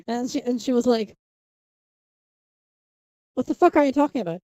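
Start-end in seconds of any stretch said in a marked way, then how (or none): 3.3-4.4 louder, higher, quick exasperated quote; retold incredulous reaction. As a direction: mimic a friend's baffled outburst. Quoting friend's blunt reaction to picture.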